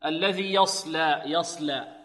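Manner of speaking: slow careful recitation of الذي يصلى; drawn-out الذي يصلى with heavy emphatic ص; Quran recitation demo. Shown as a demonstration. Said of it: "يصلى فيها صاد هنا مفخم".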